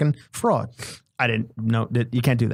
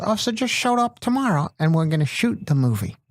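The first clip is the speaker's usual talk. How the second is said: high, put-on producer voice; Bob Wellborn; 6 semitones higher than usual. Producer telling the actor about tomorrow's shoot, high impression. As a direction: breeze through it as the older producer, pitched up. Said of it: "He talks like this".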